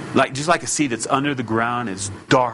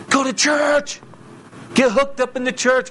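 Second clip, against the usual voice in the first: emphatic command; 13 semitones higher than usual. Real, not acted.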